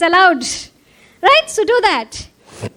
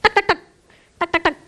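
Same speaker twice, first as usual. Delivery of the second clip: tapping sound; 5 dB quieter, much faster than usual. Shown as a demonstration. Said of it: "so you're just tapping".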